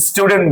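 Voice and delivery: স্টুডেন্ট as plain "stu-dent", no y glide; common pronunciation. Shown as a demonstration. Teacher shows what we always say, common pronunciation. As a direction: say স্টুডেন্ট the everyday Bangla way. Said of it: "উচ্চারণ বরাবরই করে থাকি".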